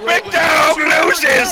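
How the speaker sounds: slow, stretched, booming call; slow announcer call. Pretend. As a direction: announce the loss slowly. Drawn-out mock announcement.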